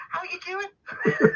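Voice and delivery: slow laughing Liverpool Scouse greeting; Scouse accent. Pretend. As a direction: put on a Scouse accent, drawn out and chuckling. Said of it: "I'll bring in my Scouse accent".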